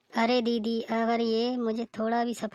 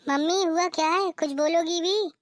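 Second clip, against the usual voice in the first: higher-pitched, worried demand for an answer; anxious insistence; 5 semitones higher, 3 dB louder than usual. Acted. Daughter asking mother on the phone what happened, anxious and insistent. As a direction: press her urgently to speak up.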